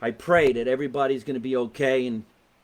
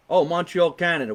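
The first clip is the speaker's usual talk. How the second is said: cheery greeting; 4 semitones higher, 5 dB louder than usual. Real, not acted. Greeting a Montreal viewer.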